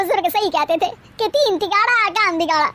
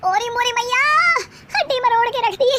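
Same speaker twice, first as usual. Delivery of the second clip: mock pained wail; 3 semitones higher than usual. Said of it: "नीचे गिर जाती है".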